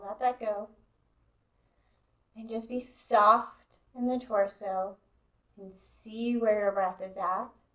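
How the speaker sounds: calm, even guidance with long pauses; guided meditation. Real, not acted. Yoga teacher easing students into Yoga Nidra, guided meditation. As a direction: settle them in, leaving space between phrases.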